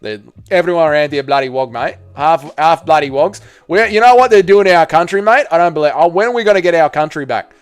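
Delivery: a hammed-up Aussie bloke's accent; mock ocker Australian accent, mildly put on; mock Australian bogan. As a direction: play a blokey Australian ranting, mate. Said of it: "I was like a little wog bloke from Australia".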